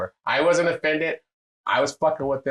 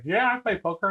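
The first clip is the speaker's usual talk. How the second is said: calling back across bar; 9 semitones higher than usual. Retold or imitated. Answering strangers across the bar.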